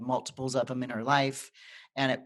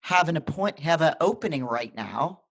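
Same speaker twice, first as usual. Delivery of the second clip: excited nurse; 3 semitones higher, 4 dB louder than usual. Retold or imitated. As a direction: deliver good news like it can't wait. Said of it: "She goes".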